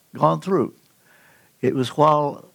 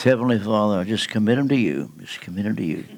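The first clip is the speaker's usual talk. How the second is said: insincere prayer; 5 semitones lower, faster than usual. Pretend. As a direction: mumble through a token prayer you don't mean. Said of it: "you don't do it like this".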